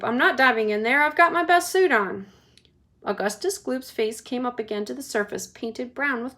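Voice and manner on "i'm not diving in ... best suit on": louder, huffy refusal; husband huffily refusing; indignant refusal. Acted. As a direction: refuse with offended pride. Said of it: "said Mister Gloop".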